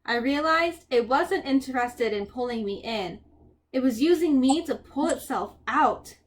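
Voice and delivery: measured audiobook-style reading; story narration. A narrator's reading. Reader tells a dream to listeners, story narration.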